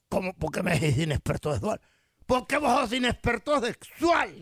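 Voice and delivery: put-on Salvadoran accent. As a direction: joke character's Salvadoran accent. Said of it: "¿De dónde es ese acento?".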